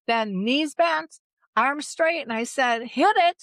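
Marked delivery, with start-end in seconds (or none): 0.1-2.2 slow, higher "knees bent, arms straight" like a ski instructor; water ski coach. Retold or imitated. 2.8-3.4 high, loud "hit it!"; boat call. Retold or imitated. Calling start like boat driver.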